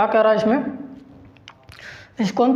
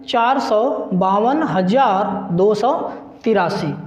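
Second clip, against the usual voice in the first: slow and deliberate; slower than usual. Shown as a demonstration. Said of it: "तो आपके पास सात million".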